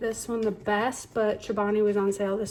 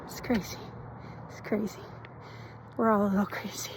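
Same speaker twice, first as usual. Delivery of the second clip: soft breathy whisper of wonder; 7 dB quieter than usual. Real, not acted. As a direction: hush it like a secret. Quiet sign-off aside.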